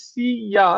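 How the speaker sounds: সিয়া said as two parts, "si-ya"; syllables drawn apart. Shown as a demonstration. Teacher showing learners the sound, সিয়া split as si-ya. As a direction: stretch সিয়া out into si and ya. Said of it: "এটা যেমন আমরা বলি".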